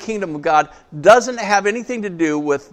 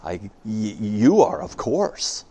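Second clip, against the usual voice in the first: shuddering zebra; 9 semitones lower, 5 dB quieter, much slower than usual. A narrator's reading. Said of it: "the zebra shudders and says".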